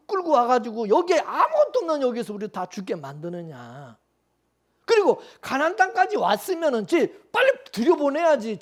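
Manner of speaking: mock indignant protest of a fed-up people; acted grumbling complaint. Israelites protesting to God at being led the long way round, acted complaint. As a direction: play the people demanding to know why. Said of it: "이스라엘 백성 하나님 앞에 원망하죠".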